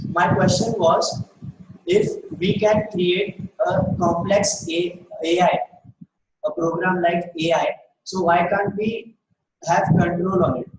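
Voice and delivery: slowed down, broken into short phrases; slow repeat. Real, not acted. Student repeating a question for the guest, slowly. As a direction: say it slowly with pauses between phrases. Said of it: "Say, say that again, slowly".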